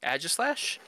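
AEGISLASH starting with short A as in "cat"; own pronunciation. Shown as a demonstration. Answering how they pronounce it, short-A "Aegislash". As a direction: say "Aegislash" as AJ-iss-lash, questioning. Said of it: "how did you pronounce that?".

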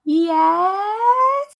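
very high, small reply; meek yes. Acted. Isla answering the ancient god timidly. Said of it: "She just goes".

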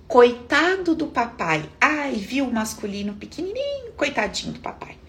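poor-little-thing voice; mock pity.

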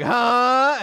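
high, loud, drawn-out "huh?"; exaggerated cartoon "huh?"; bigger huh. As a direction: top the first with comic disbelief. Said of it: "the other one's like".

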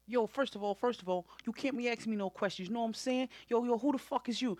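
lightly done aggrieved street voice; a hint of an indignant rapper-style ranter; a mild put-on voice for the angry podcaster; mad podcaster. Mad Podcaster character rant.

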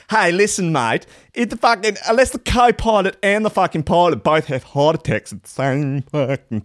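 a hammed-up Aussie mate brushing off the danger; mock Australian bloke. Calming panicking office workers, mock Australian accent.

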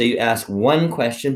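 "one" said with firm emphasis; stress on ONE. Shown as a demonstration. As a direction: make "one" the point of the phrase. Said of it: "But also the "uh," which means one".

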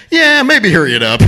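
hint that the bravado is cracking; retold strained plea. Retells tough act giving way to pain.

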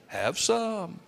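sneaky low offer. Retold or imitated. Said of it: "in a low voice, sort of like they're sneaking up on you".

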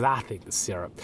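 a white Southern accent, quietly imitated. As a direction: lightly put on a white Southern server's accent. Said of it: "I was just doing a white accent".

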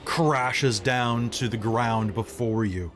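measured, dramatic narration with long suspenseful pauses; game master's scene setting. Acted. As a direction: set an ominous battle scene, phrase by phrase.

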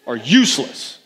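hammed-up cheer for hard work, punching YES and WORK; mock rallying cry with drawn-out final words; gung-ho workaholic. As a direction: play the overzealous hard worker. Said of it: "you heard that verse and you're like".

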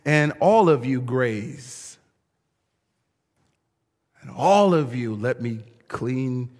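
a shepherd calling his sheep in, then gentle; shepherd calling the flock. Acted. Shepherd calling sheep into the pen. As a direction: call the flock in, then soften.

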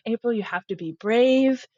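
a hint of a little girl cheering herself on; self pep talk. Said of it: "seven-year-old me is like".

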